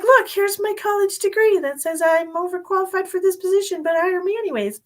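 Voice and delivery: lightly hammed job-seeker plea; mock pitch to employer. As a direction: play the cocky overqualified applicant. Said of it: "And I'd be like".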